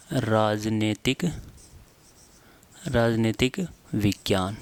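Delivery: राजनीतिक विज्ञान stretched out, with long pauses; slow dictation. Shown as a demonstration. Teacher dictates term for writing. (धीरे-धीरे, रुक-रुककर लिखवाते हुए)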